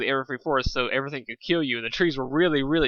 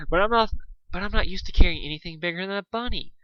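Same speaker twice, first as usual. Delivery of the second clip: complaining; 6 semitones higher than usual. Acted. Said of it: "Fluttershy complained".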